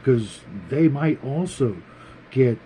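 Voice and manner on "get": ordinary talk, nothing marked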